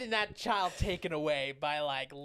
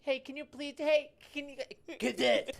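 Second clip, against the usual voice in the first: calling out; 8 semitones higher, 5 dB louder than usual. Retold or imitated. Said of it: "you're not gonna say it like that".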